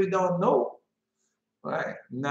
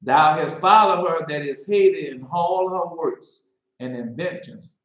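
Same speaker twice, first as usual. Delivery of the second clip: mock biblical prophet. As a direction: declaim it like a prophet. Rereads the prophecy slowly.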